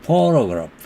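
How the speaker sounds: 포토그래프, first syllable 포 stressed; 포토그래프 with the stress up front. Shown as a demonstration. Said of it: "맨 앞에 음절에 액센트가". (포토그래프 첫 음절 강세)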